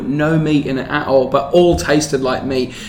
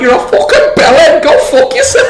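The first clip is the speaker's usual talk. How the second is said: mock retort; 10 semitones higher, 5 dB louder than usual. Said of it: "she'd be like".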